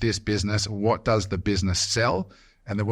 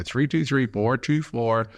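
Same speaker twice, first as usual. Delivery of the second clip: slow, imitated American phone-number readout; put-on American accent; 2 semitones higher, slower than usual. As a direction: overdo the American R in "four". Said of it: "I sound like a complete idiot".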